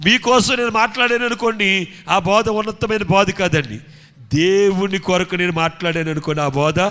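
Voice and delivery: loud, insistent sermon delivery; emphatic preacher; forceful preaching. Acted. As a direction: drive the point home loudly.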